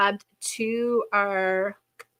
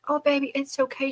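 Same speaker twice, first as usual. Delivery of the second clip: retold reassurance; 5 semitones higher than usual. Grandmother retells comforting upset child.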